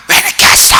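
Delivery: hammed-up loud tearful wail; mock crying. Wife beating her late husband's chest, hammed-up crying. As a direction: cry it out in mock reproach. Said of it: "막 하면서 울고 막 때리고".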